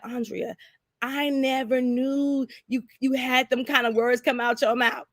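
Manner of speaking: disbelief at her daughter-in-law's language; a hint of a scandalized church mother; stunned mother-in-law. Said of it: "She was like".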